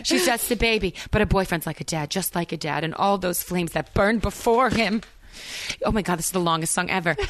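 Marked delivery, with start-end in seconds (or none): 0.0-5.0 cheesy dramatic Jersey reading. Acted. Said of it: "cheesy big bad".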